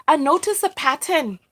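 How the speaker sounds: a rough imitation of an Australian speaker; bad Australian accent. Speaker quotes the mother ending the series, bad Australian accent. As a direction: attempt an Australian accent, not very well. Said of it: "My, my bad Australian accent".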